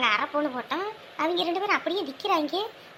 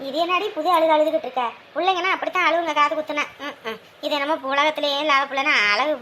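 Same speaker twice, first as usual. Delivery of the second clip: louder, irritated scolding; 3 semitones lower, 4 dB louder than usual. Acted. Grandmother scolds the crying young mother, loud and irritated. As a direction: snap at her to stop crying.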